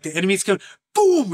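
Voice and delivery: high, loud war call; rally the troops with a high shout; battle cry. Retold or imitated. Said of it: "He's like".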